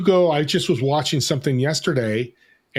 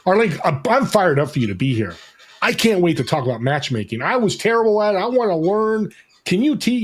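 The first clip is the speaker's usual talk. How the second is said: fired-up excited; 5 semitones higher than usual. Shown as a demonstration. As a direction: greet the guest like you can't wait to start. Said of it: "You know, that type of energy".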